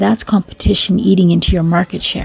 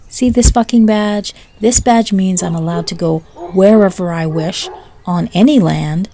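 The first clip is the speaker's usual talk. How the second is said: mock arrogant rant; 2 semitones higher than usual. Arrogant officer berating farmer.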